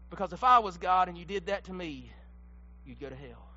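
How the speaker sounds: low, soft and ominous; hushed warning. Acted. Preacher warning the church, very quiet. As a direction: sink to a near whisper. Preacher whispers a hard truth.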